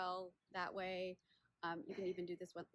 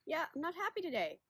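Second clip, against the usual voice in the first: lightly voiced complaining knee, higher and louder; grumbling knee; 9 semitones higher, 9 dB louder than usual. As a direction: give a sore knee a mock complaint, pitched up. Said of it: "my knee is like".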